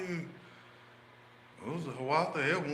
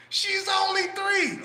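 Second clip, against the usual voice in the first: much higher, louder, very slow screech; mock outraged scream; 4 dB louder, slower than usual. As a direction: stretch out the insult in hammed-up fury. Friend shrieks in outrage.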